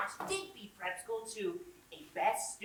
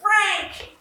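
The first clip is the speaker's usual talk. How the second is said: loud, high-pitched yell of a name; high, forceful holler; insistent shout; 8 semitones higher, 13 dB louder than usual. Acted. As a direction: shout to get a friend's attention. Calling again to get attention.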